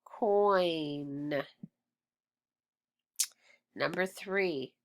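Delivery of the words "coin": "Coin" stretched on OI and N; drawn-out word. Shown as a demonstration. Teacher blending the sounds for pupils, coiiinn. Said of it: "is coin".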